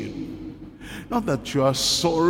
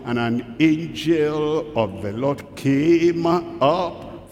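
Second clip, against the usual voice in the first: slow, solemn scripture reading; slow solemn reading of God's words; slower than usual. Acted. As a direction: read the Lord's words slowly and weightily.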